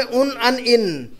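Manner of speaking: very slow "उन अन इन", each one held; endings spelt out. Shown as a demonstration. Teacher answering what Arabic uses, stretching "उन अन इन". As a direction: draw out each of "उन अन इन" separately. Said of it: "क्या आता है अरबी में".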